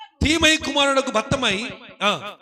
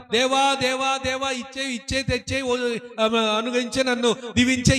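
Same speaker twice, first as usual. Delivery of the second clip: mock careless prayer. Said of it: "ప్రార్థన అనేది మనం చాలా సింపుల్ గా చేసేస్తున్నాం".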